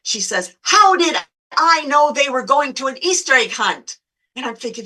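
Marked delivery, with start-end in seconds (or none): 0.6-4.0 imitating an indignant, higher-pitched woman; acted-out fuming complaint; fuming retort. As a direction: snap back in mock outrage. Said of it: "And she's just fuming".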